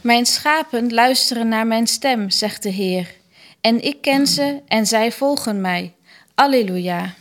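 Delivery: measured, evenly phrased scripture reading; liturgical reading. Acted. Lector reads scripture and psalm to the congregation, formal liturgical reading. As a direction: read it out formally, pausing after each verse.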